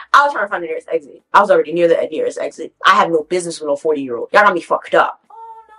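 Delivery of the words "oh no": mock his wheedling, pitched way up; imitating coaxing man.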